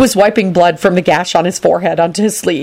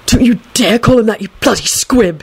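raised, indignant warning; hissed threat; 4 semitones higher than usual. A narrator's reading. Neville threatening Filch in his ear, hissed threat. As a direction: warn him off sharply. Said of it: "bent down and hissed".

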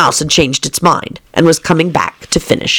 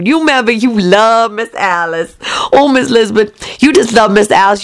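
put-on whispered, high nanny voice cooing over the baby; nanny whispering to the master; doting nanny; 4 semitones higher than usual. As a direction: hush and gush over the sleeping baby. Nanny voice to Lisbeth.

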